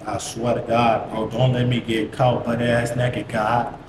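low, slow earnest plea; retold desperate prayer, drawn out; praying for himself. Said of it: "I'm trying to pray for myself".

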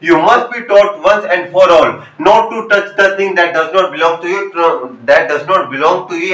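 slow, deliberate reading of a stern line; slow classroom read-aloud; story read-aloud. Acted. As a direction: read the dialogue slowly, phrase by phrase. Reads the father's speech from text.

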